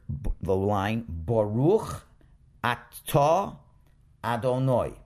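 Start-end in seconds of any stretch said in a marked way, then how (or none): 1.1-4.9 careful reading. Shown as a demonstration. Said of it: "we would read the line".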